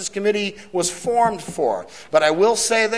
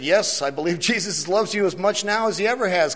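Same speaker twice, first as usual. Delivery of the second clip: nervous laugh. Real, not acted. Gulped before answering girl.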